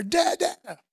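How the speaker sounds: put-on loud, high call of a little boy to his dad; joyful shout, imitating a small child; excited toddler. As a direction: imitate a toddler overjoyed to see a parent. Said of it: "I'm excited".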